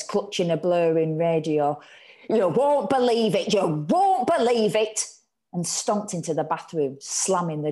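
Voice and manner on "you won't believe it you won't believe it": higher, louder, breathless news; excited announcement. A narrator's reading. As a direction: burst in with shocking news. Ma bursting in with news.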